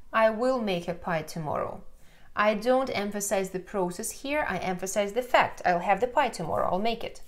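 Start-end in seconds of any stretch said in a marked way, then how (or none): none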